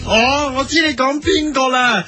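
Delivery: normal talking voice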